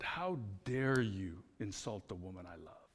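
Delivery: low, indignant rebuke on his wife's behalf; retold firm, mildly angry challenge; kind of angry. Husband defending his wife from her own put-downs, kind of angry. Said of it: "was kind of angry".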